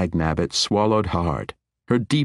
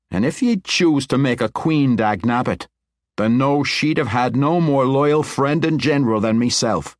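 higher, earnest pledge of loyalty; loyal dwarf; 8 semitones higher, 4 dB louder than usual. Acted. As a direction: promise it from the heart.

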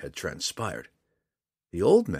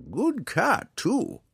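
put-on high, pleased old hermit; old man voice; much slower than usual. A narrator's reading. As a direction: praise the cat in the hermit's voice. Old man Montaleo speaks.

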